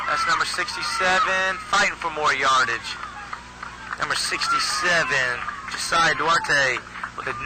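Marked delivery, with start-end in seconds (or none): 0.1-1.6 excited shout. Real, not acted. Shouting returner's number. 1.7-2.9 excited shout of the returner's number; excited call. Real, not acted. Kick return unfolding live.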